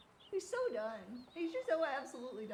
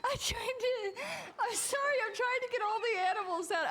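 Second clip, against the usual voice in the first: high, flustered pleading; flustered apology; 7 semitones higher, 3 dB louder than usual. Real, not acted. Streamer excusing the animals still inside, flustered and high. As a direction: apologize in a high, harried rush.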